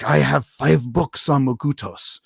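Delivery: lightly imitated Australian accent; a hint of Australian wilderness guide. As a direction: quote it with a touch of Australian. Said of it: "had this Australian accent".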